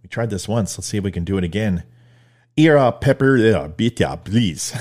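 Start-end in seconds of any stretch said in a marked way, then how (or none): 2.6-4.7 hammed-up German officer demanding papers; attempted German accent, barked loud at the start. Host playing a checkpoint officer asking for papers, mock German accent. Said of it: "what's wrong with my German accent".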